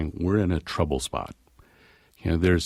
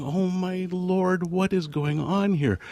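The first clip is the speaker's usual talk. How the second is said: high, slow bewilderment; stunned; 11 semitones higher, slower than usual. Retold or imitated. Husband baffled by the family habit, high and slow. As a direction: let the disbelief stretch out slowly.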